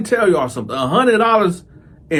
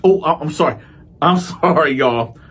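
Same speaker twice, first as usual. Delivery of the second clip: laughing apology; 2 semitones higher, 3 dB louder than usual. Real, not acted. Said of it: "I don't supposed to be cussing".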